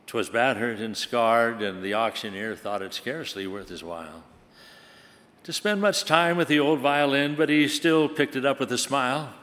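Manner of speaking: measured, dramatic poem reading; poem recitation. Acted. Preacher recites the poem to the congregation, dramatic reading. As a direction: tell the violin poem like a storyteller.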